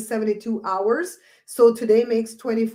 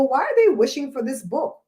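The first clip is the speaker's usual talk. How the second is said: much higher, louder eager buyer voice; excited shopper; 12 semitones higher, 4 dB louder than usual. Pretend. Vlogger acting out online shoppers, high and excited. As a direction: get more thrilled on each line. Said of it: "people are gonna go".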